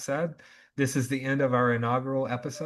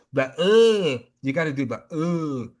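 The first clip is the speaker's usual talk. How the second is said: throaty goat bleat sound; goat noise demo; 3 semitones higher, 7 dB louder than usual. Shown as a demonstration. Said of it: "so that noise".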